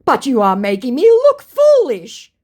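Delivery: mock his hurt pride; hammed-up complaining scammer. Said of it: "Hitch says".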